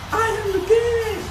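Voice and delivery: high, loud wrestler boast; hammed-up wrestling promo; Triple H impression. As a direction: bellow it like a wrestler entering. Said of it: "she looked like Triple H".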